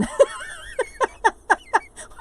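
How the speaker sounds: very high, long giggle; real laughter climbing in pitch; giggling fit. Real, not acted. Laughing at the rambling chat with viewers, high giggling fit.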